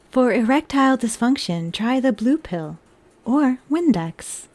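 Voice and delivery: flat, mechanical robot voice. Pretend. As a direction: drone it out like a robot. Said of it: "That is my robot voice".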